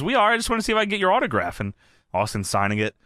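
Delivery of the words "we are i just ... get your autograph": rushed, eager nurse asking. Retold or imitated. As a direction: rattle it off fast. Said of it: "the nurse says".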